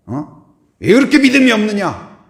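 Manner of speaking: loud, high scolding question; mock rebuke. Jesus imagined scolding Thomas, loud reproach. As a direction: scold him for doubting.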